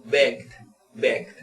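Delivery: "begged" in one short syllable; "begged" said carefully, like "begd"; pronunciation demo. Shown as a demonstration. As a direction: model "begged" twice with G running into final D. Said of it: "con una G de begged".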